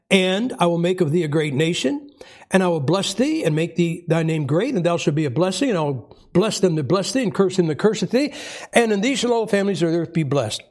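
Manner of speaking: scripture reading. Acted. Reads Genesis aloud.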